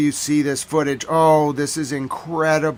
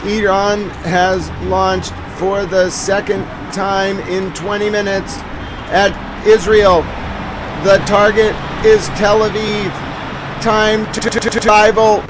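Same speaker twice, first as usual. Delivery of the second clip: mock news bulletin. News-style bulletin read.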